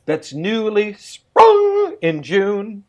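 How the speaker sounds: slow Scottish burr, drawn out; slow, lilting Scottish recital; Scottish accent. Shown as a demonstration. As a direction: roll it out like a Scots bard. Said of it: "Scottish burr".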